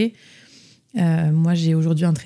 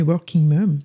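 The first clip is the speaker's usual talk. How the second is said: English accent; slower than usual. Shown as a demonstration. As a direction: say working mom in a jokey, put-on English accent. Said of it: "avec mon super accent anglais". (avec un accent anglais exagéré, pour rire)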